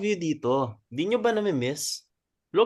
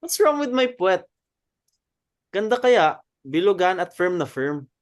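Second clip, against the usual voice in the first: mock indignation; 4 semitones higher, 5 dB louder than usual. Teasing indignant defence of butt.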